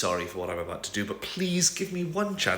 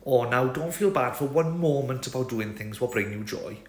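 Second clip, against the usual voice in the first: put-on cheerful sing-song Welsh accent; a chatty Welsh lilt, reassuring her; Welsh Tamlin; 4 semitones higher than usual. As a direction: Welsh accent, kindly and folksy. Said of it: "this means that Tamlin says things like".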